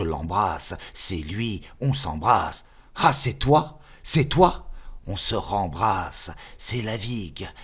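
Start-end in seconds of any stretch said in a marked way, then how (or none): 2.9-4.7 high, loud cry of recognition; like finding a friend thought lost; joyful surprise. Acted. (surprise joyeuse, aiguë et forte)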